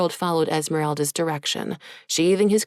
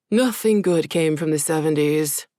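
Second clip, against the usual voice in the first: groaning complaint. Acted. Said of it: "Jax groaned".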